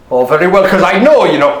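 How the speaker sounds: low, composed acceptance; cool and calm. Acted. Robin reassuring the thieves, cool and collected. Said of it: "wasn't he all cool and calm and collected".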